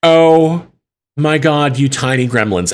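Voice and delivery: a touch of mock exasperation; exasperated outburst. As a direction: blow up at unruly kids. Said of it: "about to lose her fucking mind".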